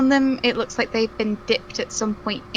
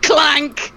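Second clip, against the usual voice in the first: loud, higher imitated metallic clank; bag clank; 5 semitones higher, 4 dB louder than usual. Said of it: "Dumps her bag, like".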